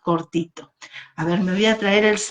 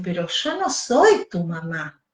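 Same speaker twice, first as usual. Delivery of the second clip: butterfly voice; 3 semitones lower than usual. Acted. Butterfly corrects the bird.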